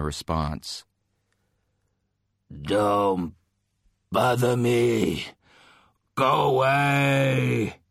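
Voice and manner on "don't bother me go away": from another room. Acted. Professor yelling through the door.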